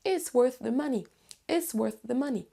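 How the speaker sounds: WORTH THE joined, falling on MONEY; careful TH in WORTH THE MONEY; linked TH model. Shown as a demonstration. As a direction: practice model linking WORTH into THE. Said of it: "la liaison avec la suite".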